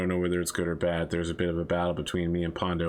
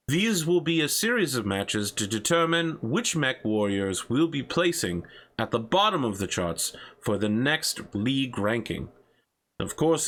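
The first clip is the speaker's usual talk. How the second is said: lightly voiced talk show host; upbeat broadcast host voice; 5 semitones higher than usual. Hosts the in-game show.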